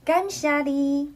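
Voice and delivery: 感谢你 spoken slowly as a model; Taiwanese phrase. Shown as a demonstration. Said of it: "And we usually say".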